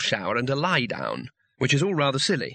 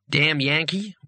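southern sneer; 3 semitones higher, slower than usual. A narrator's reading. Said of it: "In such a tone of voice".

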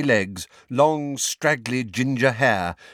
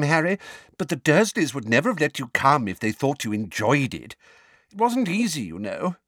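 put-on high-pitched, fretful old neighbour; fretful Mrs Figg; 7 semitones higher than usual. Neighbour apologising to Harry for his miserable visits, fretful. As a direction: explain it apologetically in a raised character voice.

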